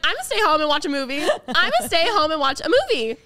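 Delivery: fed-up vow. Retold or imitated. Retelling the night her costume ripped, loud and fed up. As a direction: declare you are done with parties.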